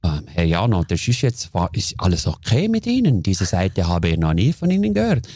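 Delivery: a hint of a startled but calm caller; calm caller on the phone. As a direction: play the stunned, polite business partner. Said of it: "ist der so am Telefon ganz ruhig".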